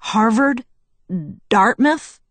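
awed disbelief. Acted. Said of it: "Charlie mumbled, unable to conceal his awe".

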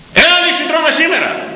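high, mocking call of a feasting man; mock invitation. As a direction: lure him to the table with a jeer. Imitating a feasting cleric. (κοροϊδευτικό κάλεσμα με πολύ ψηλή φωνή)

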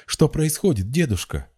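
high-pitched urgent outburst; impulsive exclamation. A narrator's reading. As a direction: burst in with an alarmed question. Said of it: "порывисто воскликнула".

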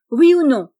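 forceful, pressing question; impatient demand. A narrator's reading. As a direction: demand an answer now.

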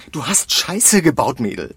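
furious dressing-down of a colleague; angry scolding. Acted. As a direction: drag out the blame, hard.

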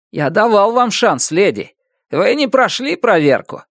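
high, cold dismissive threat; smug landlord. A narrator's reading. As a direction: lay out her fate coldly. Neighbor threatens eviction. (холодная угроза)

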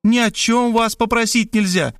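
high, teasing woman's voice; woman scolding Robert in the trench; mocking reproach. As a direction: tease him with scorn. She mocks him.

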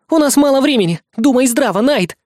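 high, loud urgent rebuke. A narrator's reading. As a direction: raise your voice to snap him back to reason. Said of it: "Рекки повысила голос".

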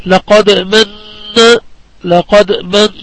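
لقد من with a lingering نّ in من; ghunnah on noon. Shown as a demonstration. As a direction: hold the doubled ن at the end of من in a nasal hum. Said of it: "النون المشددة".

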